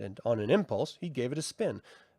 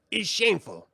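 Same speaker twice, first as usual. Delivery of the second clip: high, theatrical sprite voice; mocking brownie; 5 semitones higher than usual. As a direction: tease him with mock ceremony. Brownie agrees.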